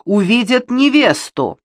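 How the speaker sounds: wailing. A narrator's reading. Bride afraid guests will see her, wailing high. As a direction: whine it high, rising on the last word. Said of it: "завыла Ребекка".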